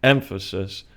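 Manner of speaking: "Emphasis" with the stress on EM; stress on first syllable. Shown as a demonstration. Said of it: "is on the first syllable".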